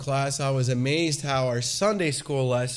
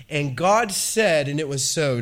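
slow, weighty scripture reading; booming biblical narration; 3 dB louder, slower than usual. Acted. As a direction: proclaim each line of scripture. Reads Genesis aloud.

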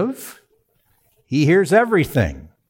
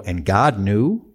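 slow, puzzled reading with a rise on knew; puzzled question; 3 semitones lower, slower than usual. Retold or imitated. Preacher voicing a confused reader, puzzled rise. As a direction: sound baffled by the verse. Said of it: "you can look at it and go".

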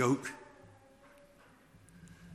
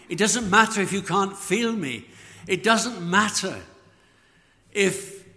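building fervent preaching; 3 semitones higher, 5 dB louder than usual. Real, not acted. Preacher pressing home the promise.

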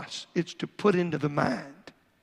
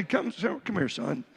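a hint of a tender dad apologizing; apologetic father; 3 semitones lower than usual. Shown as a demonstration. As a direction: gently ask your son to forgive you. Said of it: "You call him and say".

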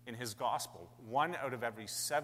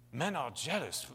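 brief put-on British accent; 3 semitones higher than usual. Shown as a demonstration. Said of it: "read it in a British accent".

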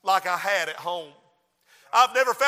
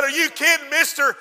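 put-on surprised boy; 7 semitones higher, 5 dB louder than usual. Boy's astonished reply.

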